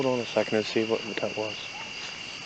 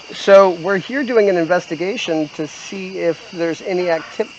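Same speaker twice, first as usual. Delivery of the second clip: talking to a ghost; 5 semitones higher than usual. Real, not acted. Speaking gently to a spirit.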